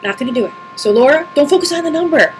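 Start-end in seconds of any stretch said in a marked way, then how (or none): 0.0-0.5 softer, holding back tears; real emotion welling up, quieter; getting teary. Real, not acted. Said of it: "I'm gonna get teary about this".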